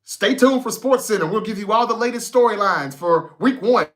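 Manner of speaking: bright TV anchor promo read. Retold or imitated. Mocking sports anchors to viewers, announcer voice. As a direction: mimic a SportsCenter host teasing the show. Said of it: "Did you hear what they be saying".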